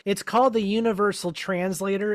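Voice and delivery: lightly voiced comic book guy; a hint of pedantic comic-book-nerd voice. Host answers a nitpick about aliens speaking English, comic book guy voice. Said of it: "do my comic book guy voice".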